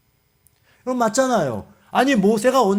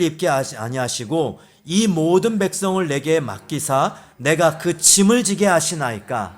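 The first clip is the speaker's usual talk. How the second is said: lower, measured congregational reading; scripture reading; 3 semitones lower than usual. A narrator's reading. Preacher leading congregation in reading Numbers, scripture reading. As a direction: read the verse aloud in unison pace.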